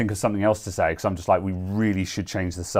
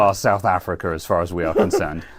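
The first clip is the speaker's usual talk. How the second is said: laughing; 5 dB louder than usual. Real, not acted. Teasing through laughter.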